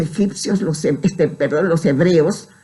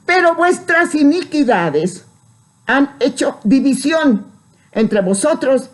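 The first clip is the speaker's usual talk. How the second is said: Bible verse proclaimed from a high start; solemn scripture reading; 5 semitones higher than usual. Acted. Preacher reading Isaiah to the brethren, solemn proclamation. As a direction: read it out gravely to the congregation.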